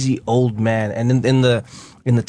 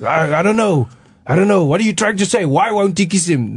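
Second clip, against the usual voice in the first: confused policeman; 7 semitones higher than usual. Retold or imitated. Policeman baffled by grandfather's question, high and flustered. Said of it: "the policeman is like".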